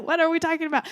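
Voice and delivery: hammed-up parental alarm; mock alarmed question. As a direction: ask as if caught off guard. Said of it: "And I'm just like".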